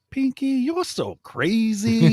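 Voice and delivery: squeaky falsetto, drawn out slowly; high cartoon squeal, slowed right down; mock high voice. Podcast cohost requests the catchphrase, squeaky falsetto. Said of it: "record you for an ad ... where you just say".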